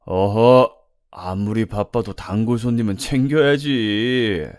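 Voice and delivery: loud reproving interjection, then slow drawn-out coaxing; pushy customer. Acted. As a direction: insist like an entitled regular. Pushy customer overrules the reluctant waitress. (능글맞게 윽박지르는 손님 말투)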